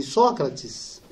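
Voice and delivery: put-on softly calling a name like a gentle child; a light hint of a sweet young boy calling out; sweet child's voice. Boy at the yard calling his friend, softly and sweetly. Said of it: "uma voz doce de uma criança".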